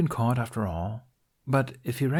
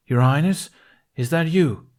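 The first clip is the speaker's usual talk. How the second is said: calling out; 6 semitones higher, 7 dB louder than usual. Acted. Guard calls toward voice.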